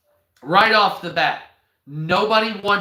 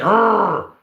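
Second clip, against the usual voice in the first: louder playful angry growl; mock growl; 4 semitones higher, 6 dB louder than usual. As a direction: snarl it, hammed-up.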